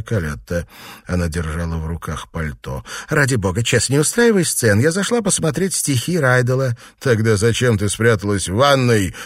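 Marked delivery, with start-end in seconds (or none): 3.1-6.8 anxious plea. Acted. Wife begs husband not to fight. 7.0-9.1 jealous husband bursts out, raised voice; outburst. Acted. Husband to wife caught hiding, angry outburst. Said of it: "взорвался Честер".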